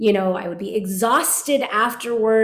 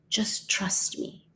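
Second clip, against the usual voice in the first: breathy whispered repeat, slow; a teacher's hushed promise to a doubting student; 7 dB quieter, much slower than usual. Retold or imitated. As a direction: lean in and whisper it to her. Teacher urging her at harmonium.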